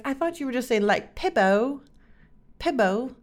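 imitating sister. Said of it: "saying it with an accent".

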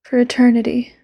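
whispered yandere lover. Acted. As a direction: close whisper, sweet and possessive.

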